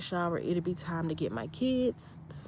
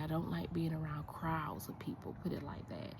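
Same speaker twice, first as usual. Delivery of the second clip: whisper; 7 dB quieter than usual. Real, not acted. Hushing as people pass.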